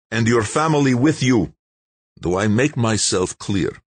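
measured, icy threat; cold. A narrator's reading. Russian official threatening exile, coldly. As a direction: threaten without raising a fuss.

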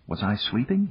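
soft, sleepy mutter. A narrator's reading. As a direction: mutter it softly, half awake. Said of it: "he muttered".

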